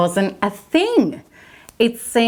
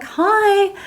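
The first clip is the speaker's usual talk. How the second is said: high, clipped little hi; curt brush-off; 12 semitones higher than usual. Retold or imitated. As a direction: shut him down with one word. Her curt reply to him.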